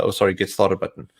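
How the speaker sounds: ordinary delivery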